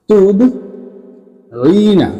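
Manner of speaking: তুদঈনা dragged out very slowly, vowels held long; slow stretched demo. Shown as a demonstration. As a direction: draw out তুদঈনা like a teacher. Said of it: "teacher demonstrating the word".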